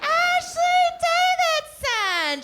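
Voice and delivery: very high, loud, stretched-out name; exasperated mom. Retold or imitated. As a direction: holler the name slowly like an insistent mother. Mother repeats the name insistently.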